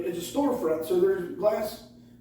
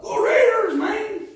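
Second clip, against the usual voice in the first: high, slow, loud sports cheer; sudden cheer; 13 semitones higher, 8 dB louder, slower than usual. Retold or imitated. Mikey cheering at a game on his phone, loud. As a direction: yell it out of nowhere. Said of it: "echoing Mikey's cheer".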